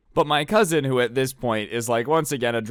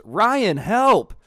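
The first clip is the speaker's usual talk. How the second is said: raised, higher-pitched retold cry for help; calling for help; 8 semitones higher, 7 dB louder than usual. Cousin tackles the guy and goes, calling for help. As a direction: call out as the cousin needing backup.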